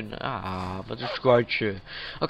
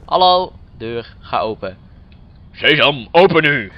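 loud playful magic command; mock command; 7 dB louder than usual. Gamer orders a locked door open: mock command. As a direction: boom it at the door like a wizard.

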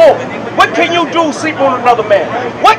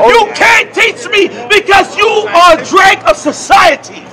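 shouting; 4 semitones higher than usual. Real, not acted. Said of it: "You're shouting at me".

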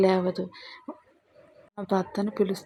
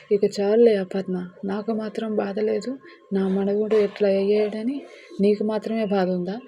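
louder, scolding grandmother; scolding shout; 4 dB louder than usual. Acted. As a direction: shout at her to drink the milk. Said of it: "అని గట్టిగా అరుస్తుంది". (కోడలిపై గట్టిగా అరుస్తూ)

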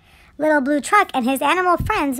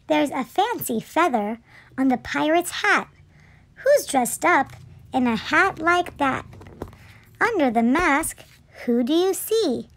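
measured picture-book narration; children's story reading. A narrator's reading. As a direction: read it aloud to little children.

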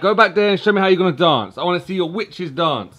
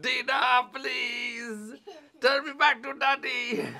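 pleading shout; 3 semitones higher, 7 dB quieter than usual. Pretend. Dad pretends he was turned into a bug.

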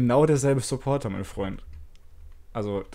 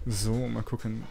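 voice changer; 4 dB quieter, slower than usual. Real, not acted. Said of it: "ich mach mal den Stimmverzerrer kurz aus".

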